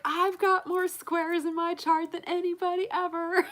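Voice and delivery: high, loud mock boast; lightly voiced bragging father; imitating dad bragging. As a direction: show off like a proud dad. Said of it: "be like".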